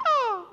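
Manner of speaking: high, loud imitated "ah"; mock cry. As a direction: act out the injury with a high cry. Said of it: "my foot went".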